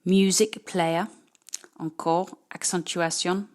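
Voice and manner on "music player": Music player, MU- and PLAY- stressed; first-syllable stress. Shown as a demonstration. Teacher modelling Music player for pupils, first syllables stressed. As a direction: lean on the start of each word in Music player. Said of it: "c'est la première syllabe de chaque mot".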